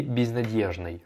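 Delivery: безнадёжной said with "dye"; old-version pronunciation. Shown as a demonstration. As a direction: use "dye", not "dyo", in безнадёжной. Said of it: "à l'époque, en tout cas". (безнадёжной à l'ancienne, avec « dié »)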